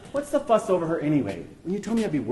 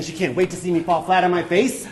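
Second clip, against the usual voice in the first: "wait" emphasised as proof of a hidden insult; stress on WAIT; 5 dB louder than usual. Retold or imitated. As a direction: lean hard on "wait", louder, reading doom into it. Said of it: "how she emphasized the word wait".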